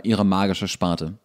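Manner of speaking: ordinary delivery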